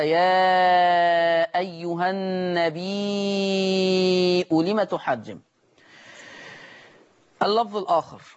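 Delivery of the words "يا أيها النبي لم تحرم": النبي slowly drawn out as النبيء with a six-beat madd; recited with full madd. Shown as a demonstration. Tajweed teacher demonstrating the verse to students. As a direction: stretch النبي long before the hamza. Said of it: "هكذا".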